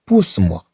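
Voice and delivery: بوس موا with an unvoiced S closing the first word; correct double-S sound. Shown as a demonstration. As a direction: say بوس موا as French "pousse-moi", S not Z. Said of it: "ليتحقق هذا النطق".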